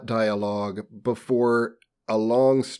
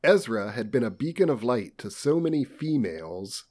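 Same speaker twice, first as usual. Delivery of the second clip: measured, formal audiobook delivery; story narration; 3 dB quieter than usual. A narrator's reading. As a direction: read it out like a literary audiobook. Reads novel aloud.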